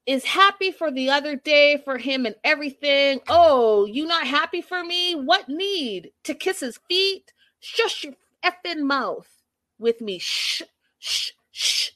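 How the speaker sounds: imitated high-pitched indignant rant; mock a worked-up man, ending in shushing; Florian. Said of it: "Florian is on one hundred".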